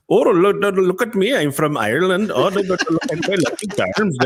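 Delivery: imitating a dad's bad Irish accent; hammed-up Irish, Lucky Charms style. Son mocking his dad's terrible Irish accent. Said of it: "he'll do an Irish accent".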